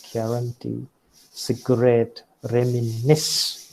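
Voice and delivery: "guarantee, cigarette, reminisce" each accented on the final syllable; stress on last syllable. Shown as a demonstration. Lecturer listing exceptional words, "guarantee, cigarette, reminisce" stressed at the end. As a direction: list "guarantee, cigarette, reminisce" apart, weight on each ending. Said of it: "accent can fall on the last syllable".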